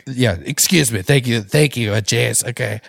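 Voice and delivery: lightly voiced boastful politician, stretched words; Donald Trump. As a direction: hold forth like a self-important candidate. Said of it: "Give him some Donald".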